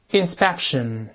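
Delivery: inspection read clearly as the English word; model reading. Shown as a demonstration. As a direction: say inspection for the class to repeat. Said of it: "再读检查这个名词".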